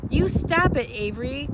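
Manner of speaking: loud, high pleading cry. A narrator's reading. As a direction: stop him before he strikes. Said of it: "cried Fern".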